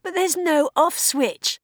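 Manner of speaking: high, anxious cry; panicking at the machine; panicked protest. Acted.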